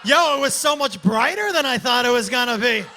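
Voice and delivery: loud punchline delivery. Real, not acted. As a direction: belt it to the crowd. Loud crowd emphasis.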